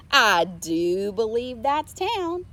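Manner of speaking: Mabel noticing. A narrator's reading. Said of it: "Mabel pointed up ahead".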